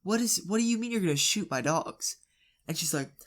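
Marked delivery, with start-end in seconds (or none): 0.0-2.2 baffled questions with rising ends; confused. Retold or imitated. Dad reacts to neighbour's offer to shoot dogs, confused. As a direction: act out dad's disbelief, pitch climbing. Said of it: "obviously confused".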